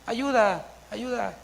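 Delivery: a high, soft, feeble cry of help with no push; mock someone calling ayuda far too softly; meek mock call for help. Preacher mocking a soft, high call for help during a fire. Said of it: "no dices".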